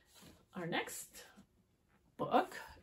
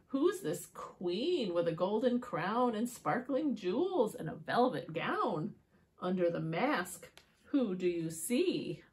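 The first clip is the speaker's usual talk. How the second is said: rhythmic picture-book narration; riddle for children; 3 dB louder than usual. A narrator's reading. Asking children who the queen is, measured storytelling.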